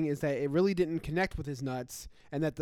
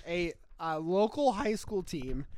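voice cracking; slower than usual. Real, not acted. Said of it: "my voice just cracked for some reason".

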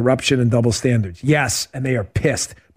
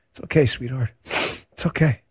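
softer, half-whispered mock sob; a light comic imitation of himself crying; 5 dB quieter than usual. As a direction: pretend to hold back tears while comforting her. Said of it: "As I'm crying like this".

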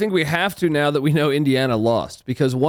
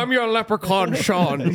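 put-on Sean Connery Irish accent; 2 semitones higher, slower than usual. Repeating the bit to the co-host in a hammed-up Irish accent. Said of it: "That's Sh-, Sean Connery, right?".

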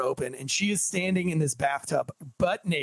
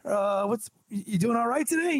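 cool cop; 7 semitones higher than usual. Retold or imitated. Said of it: "I'm trying to be cool cop".

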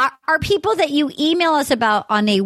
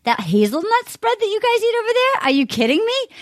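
hammed-up Boston accent. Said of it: "Can I do a Massachusetts accent".

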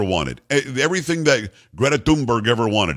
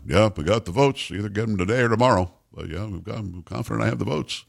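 mafia don; 3 semitones lower, 4 dB quieter than usual. Retold or imitated. Host mocks McConnell as a mafia don, low fading voice. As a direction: lower mock mob boss, fading much softer. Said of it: "like some sort of a mafia don".

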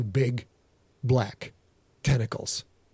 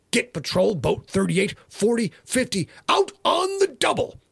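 clipped command climbing higher to the end; sergeant's order; 6 semitones higher than usual. Acted. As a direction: snap it out, rising on the double.

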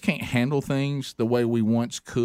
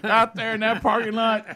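gleeful gloating; 9 semitones higher than usual. Acted. Gloating over waiting crowd.

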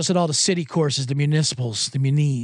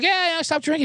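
put-on Korean accent; 11 semitones higher than usual. Quoting Steve in accent.

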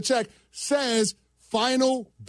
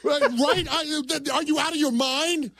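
higher, rising disbelief rant; escalating comedy rant; 3 semitones higher than usual. Real, not acted. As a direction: build the outrage, pitch up. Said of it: "flat out flamethrower".

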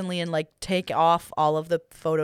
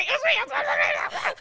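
slow, drawn-out laughing confession; much slower than usual. Retold or imitated. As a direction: stretch it out through a laugh. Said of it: "I was like".

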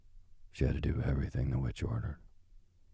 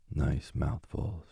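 gloating witch thought; much slower than usual. Acted. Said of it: "she thought".

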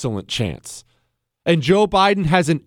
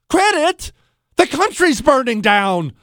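incredulous; 7 semitones higher than usual. Real, not acted. Host scoffing at Trump wanting credit, disbelieving. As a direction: spit the word "Credit?" out in disbelief. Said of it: "incredulous outburst".

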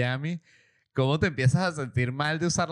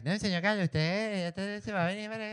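higher-pitched mock Venezuelan voice; lightly hammed-up Venezuelan accent, pitched up; imitating Venezuelan accent; 6 semitones higher, 4 dB quieter than usual. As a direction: do dad's singsong impression of Venezuelans. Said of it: "imita a los venezolanos".

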